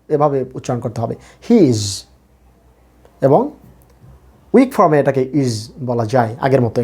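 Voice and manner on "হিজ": হিজ with a drawn-out ee, "heez"; long vowel. Shown as a demonstration. Teacher shows how to pronounce it, long vowel. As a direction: hold the ee in হিজ. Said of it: "এটাও long sound".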